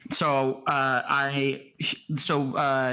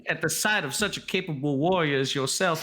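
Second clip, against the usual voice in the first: higher, breathless faint-lady flutter; swooning damsel; 4 semitones higher than usual. Acted. Velmira swooning to the warrior who caught her. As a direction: play the fainting maiden, stammering.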